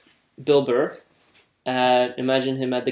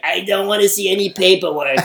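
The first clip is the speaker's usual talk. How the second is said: slug lady; 3 semitones higher than usual. Acted. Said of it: "that was good".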